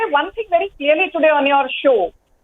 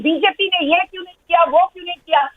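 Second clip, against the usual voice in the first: mocking imitation; much faster than usual. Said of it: "this N C P gentleman sitting here and saying".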